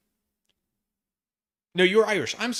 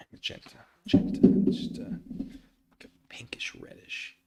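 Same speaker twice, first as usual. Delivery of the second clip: whisper. Real, not acted. Musing on colors.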